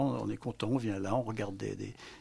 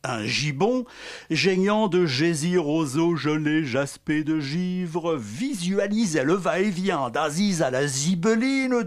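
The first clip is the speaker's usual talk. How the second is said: declaimed sound poem, every V, Z and J sung out; poème sonore déclamé; 2 semitones higher than usual. Acted. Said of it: "Je vais vous faire un poème sonore". (déclamation sonore, consonnes V, Z, J appuyées)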